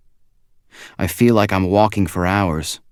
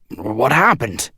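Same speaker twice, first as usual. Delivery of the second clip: higher, slow alarmed question; alarmed boss; 5 semitones higher, slower than usual. A narrator's reading. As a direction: ask it just woken and wild-eyed. Max woken in alarm.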